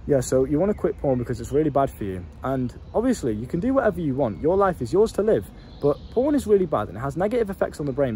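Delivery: flat, lifeless robotic delivery; mock dull lecture, no spark. Shown as a demonstration. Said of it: "I sound like a robot".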